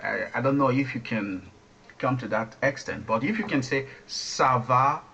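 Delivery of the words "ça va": French with an American-style R in très; American accent. Retold or imitated. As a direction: imitate an American learner speaking French. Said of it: "that's the way Americans say it".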